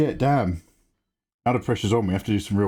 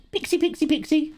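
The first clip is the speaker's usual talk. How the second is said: calling out. Real, not acted. Calling out to a chatter.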